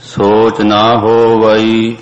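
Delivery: ਹੋਵਈ said with a long, separate final ਈ, as ਹੋ-ਵ-ਈ; correct recitation. Shown as a demonstration. A teacher showing students how to sing ਹੋਵਈ. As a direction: sing ਸੋਚ ਨਾ ਹੋਵਈ with ਹੋਵਈ stretched as ho-va-ee. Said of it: "ਇਸ ਦੇ ਤਾਈ ਸੋਚਿਆ ਹੀ ਉਚਾਰਨਾ".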